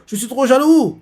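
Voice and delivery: jealous whine. Acted. Jealous friend whining.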